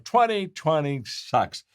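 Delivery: high, drawn-out "Twenty twenty sucks"; emphatic slogan. Retold or imitated. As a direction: stretch "Twenty twenty sucks" slowly and high, like a proclamation. Retold blunt slogan, cheered as outcry.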